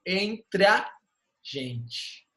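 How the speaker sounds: "Entre a" joined into one, then "gente" after a pause; vogais juntas. Shown as a demonstration. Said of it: "Eu junto também". ("Entre a" emendado, pausa, "gente" mais baixo)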